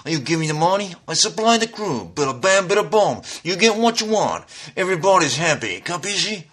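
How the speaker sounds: a hint of a smooth Italian mobster; wise guy. Shown as a demonstration. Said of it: "I can give you a wise guy".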